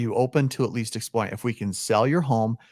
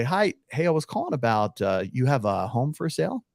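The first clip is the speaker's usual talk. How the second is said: calm soft opener. Shown as a demonstration. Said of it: "I'll role play it with you".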